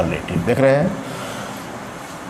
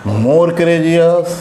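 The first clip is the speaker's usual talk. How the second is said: slow drill; much slower than usual. Shown as a demonstration. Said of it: "teacher drills the comparative form".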